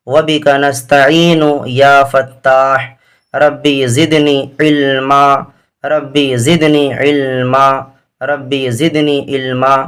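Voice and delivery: drawn-out, measured dua chanting; slow devotional recitation of the duas; slow prayerful recitation. Shown as a demonstration. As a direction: recite each phrase slowly, like a prayer. Recites opening duas slowly.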